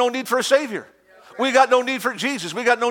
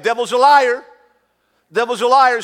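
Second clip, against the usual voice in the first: loud, raised declaration; preaching shout; 3 semitones higher, 5 dB louder than usual. Acted. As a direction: proclaim it over the crowd. Preacher declaring against devil.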